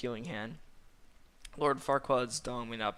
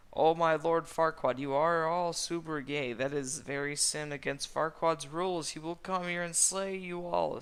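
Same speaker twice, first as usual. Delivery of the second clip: higher, loud, melodramatic warning; scandalized Fiona; 5 semitones higher, 5 dB louder than usual. A narrator's reading. Fiona warning everyone of Farquaad's wrath, high and scandalized. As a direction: declaim it in mock horror.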